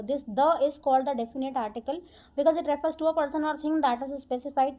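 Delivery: reads the rule out word by word, very slow; slow rule reading. Acted. Teacher reading the rule to her students, slow dictation. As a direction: dictate it slowly to the class.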